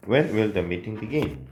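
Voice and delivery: slow and deliberate; slow model sentence. Shown as a demonstration. Teacher dictating the finished question to students. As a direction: read it out slowly for dictation. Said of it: "이라고 써주시면".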